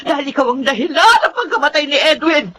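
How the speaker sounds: tearful accusation. Acted. Grieving mother accuses woman.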